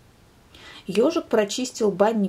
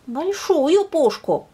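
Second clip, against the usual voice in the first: hedgehog adding; 9 semitones higher, 5 dB louder, slower than usual. Acted. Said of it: "сказал ёжик".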